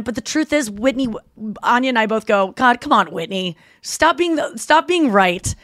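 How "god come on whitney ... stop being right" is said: mock-annoyed plea; playful, emphatic frustration; exasperated complaint. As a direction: groan at a friend who is right. Both protest Whitney being right.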